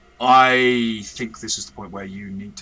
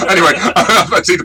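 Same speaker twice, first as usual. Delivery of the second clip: laughing through the line, higher and louder; 9 semitones higher, 11 dB louder than usual. Real, not acted. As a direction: crack up mid-sentence at your own joke. Laughing at own pun on bogging down.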